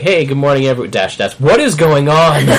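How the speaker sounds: confused. Retold or imitated. Quoting own confused tweet.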